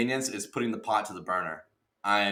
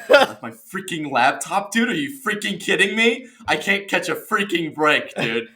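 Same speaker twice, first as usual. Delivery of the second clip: loud, higher-pitched mock outrage; exasperated ranting; 6 semitones higher, 5 dB louder than usual. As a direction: rant as if nothing ever goes right. Retells his outburst about the laptop.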